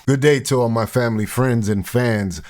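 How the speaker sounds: put-on Michael Blackson accent. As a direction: lightly put on a West African accent for the greeting. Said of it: "I gotta say it in his accent".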